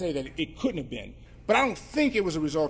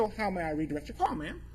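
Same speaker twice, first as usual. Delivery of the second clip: white voice; 7 dB quieter than usual. Retold or imitated. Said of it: "using my white voice".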